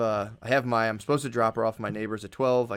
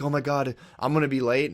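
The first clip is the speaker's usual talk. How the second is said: lightly raised, fretful retelling; mild mock panic; 3 semitones higher, 4 dB louder than usual. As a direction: imitate a worried thought with a touch of alarm. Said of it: "really freak out about".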